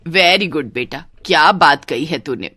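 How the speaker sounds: approving mother. Acted. Mother applauding her son's words, approving. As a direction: praise the son in a low register.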